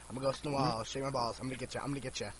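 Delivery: a hint of a moaning ghost. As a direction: croon it low like a spook in the wall. Ghost voice repeated.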